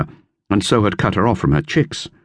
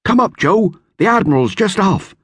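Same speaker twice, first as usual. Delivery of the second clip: high, mildly raised call below deck; shouted. A narrator's reading. Bill calls Joe up from below deck, light raised shout. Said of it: "leaned over and shouted".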